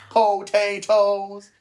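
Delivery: high, stretched-out character voice; movie character's reply. Acted. Host answers his own creature voice, movie character impression. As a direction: pitch it high and draw out the first word. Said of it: "And he goes".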